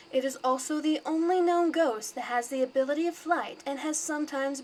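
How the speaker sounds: half villain, half documentary read; cartoon supervillain. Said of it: "I will use my supervillain voice, like cartoon supervillain".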